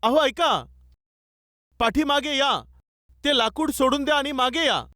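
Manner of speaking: half-shouted wifely plea; wife calling out. Retold or imitated. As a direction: imitate a worried wife calling her husband back, without real shouting. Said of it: "त्याची पत्नी जोराने ओरडू लागली".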